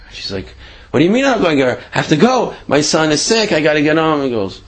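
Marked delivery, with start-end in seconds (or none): 0.9-4.2 high, hurried pleading woman; frantic pleading. Retold or imitated. Woman pleading with the mugger, voice raised high and frantic. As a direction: beg him to let her go home to her sick son.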